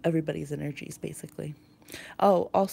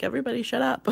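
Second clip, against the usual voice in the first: high-pitched playful mock yell; mock scream; 6 semitones higher, faster than usual. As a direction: pretend to scream over the noise. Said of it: "like, they're screaming".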